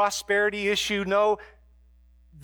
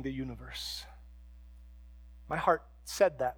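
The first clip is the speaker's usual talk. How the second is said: true repentant prayer. Shown as a demonstration. Pastor modelling a true repentance prayer, sincere and earnest. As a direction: pray it plainly and honestly, from the heart. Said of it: "repentance might sound a little more like this".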